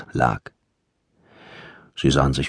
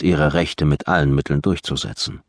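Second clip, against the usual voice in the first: ordinary delivery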